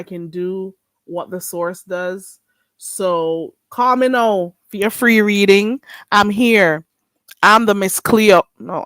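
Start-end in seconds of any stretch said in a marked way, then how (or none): 2.8-8.4 a light hint of a Jamaican psychic hotline accent; Miss Cleo impression. Pitching free readings to callers, mild Jamaican psychic accent. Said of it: "I can't do Miss Cleo".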